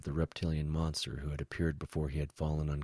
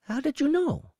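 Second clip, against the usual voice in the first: high, tight, louder demand; through clenched teeth; 6 dB louder than usual. A narrator's reading. Woe grasps the betrayal, speaking through clenched teeth. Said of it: "Woe managed between clenched teeth".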